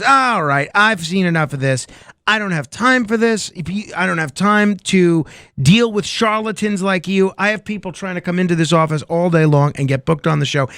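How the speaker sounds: mildly exasperated busy producer; mock fed up. Producer dismissing dog owner and charlatans, mock exasperation. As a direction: cut off the nonsense with acted impatience. Producer loses patience, throws them out.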